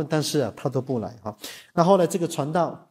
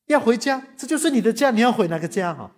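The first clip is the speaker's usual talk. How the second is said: baffled husband; 7 semitones higher than usual. Retold or imitated.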